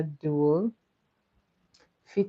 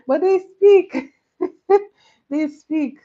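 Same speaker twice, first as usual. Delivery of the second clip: high, loud laughing objection; laughing protest; 12 semitones higher, 11 dB louder than usual. Real, not acted. Laughing protest about Ed Edd Eddy.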